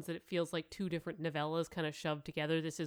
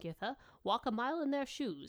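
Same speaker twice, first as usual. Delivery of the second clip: faint smile; 6 semitones higher than usual. Acted. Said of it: "with a faint smile".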